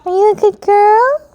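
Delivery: high, bright cooing question to the cat; high pet talk. Real, not acted. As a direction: coo it up high to praise the cat. Praising her cat.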